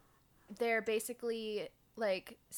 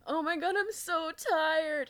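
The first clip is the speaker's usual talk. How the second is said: whiny tired groan, louder; mock exasperated; 7 semitones higher, 5 dB louder than usual. Host plays worn-out Jake, mock exasperated whine. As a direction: overplay the weariness. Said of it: "And Jake's like".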